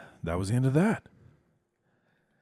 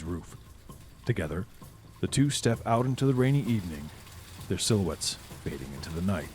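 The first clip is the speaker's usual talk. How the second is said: measured, evocative scene-setting read; game master narration. A narrator's reading. Game master setting the scene for players, in a storyteller's read.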